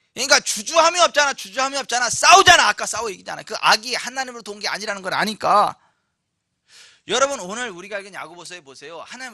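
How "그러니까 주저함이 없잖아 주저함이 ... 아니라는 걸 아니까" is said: emphatic, loud sermon delivery; forceful preaching. Real, not acted. Preacher urging believers to fight without hesitation, forceful. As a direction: drive the point home.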